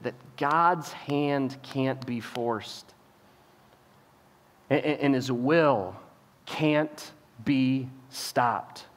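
very slow, soft, weighty delivery; hushed preacher's stress; solemn emphasis. Acted. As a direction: lay each word down heavily. Preaching the key point.

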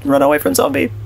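high-pitched, broken caveman English; caveman talk. Pretend. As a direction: play a dim caveman scared of the zombie. Caveman talk fleeing a zombie.

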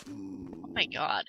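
a whispered, slow "oh my god"; breathy oh my god. Real, not acted. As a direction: let it out on breath. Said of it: "that fucking giggle".

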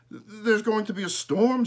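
high, loud urgent warning; alarmed warning. A narrator's reading. Boy warns his sister, high and urgent. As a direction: sound the alarm.

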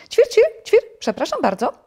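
very high, chirpy little bird voice; chirping sparrow. A narrator's reading. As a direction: chirp loudly between polite, high words. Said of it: "zapytał wróbel".

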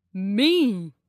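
yelled reply. A narrator's reading.

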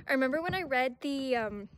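breathless from excitement; out of breath. Real, not acted. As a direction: talk while catching your breath. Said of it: "I'm out of breath".

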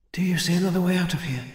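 high, fast, hushed-urgency question; urgent question. A narrator's reading. Swordswoman asking her dragon for escape, urgent.

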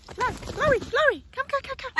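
high, sing-song calling; high-pitched pet call. Real, not acted. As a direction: call the bird to come back. Calling the bird back.

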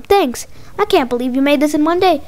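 plain reading voice

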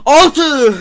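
loud excited cry over a card draw; unnecessary excitement. Real, not acted. Gamer yelling at his own lucky draw, overexcited. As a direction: yell the number out, thrilled. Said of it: "Gereksiz heyecan".

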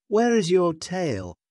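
high-pitched surprised asking; astonished question. A narrator's reading. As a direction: ask amazed, pitch lifted high. Monkey relatives ask about tail.

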